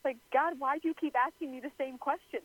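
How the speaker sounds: mildly exasperated imagined protest; a touch of incredulous complaint; frustrated. Acted. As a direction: voice Peter's mounting frustration at being asked. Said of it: "just getting frustrated".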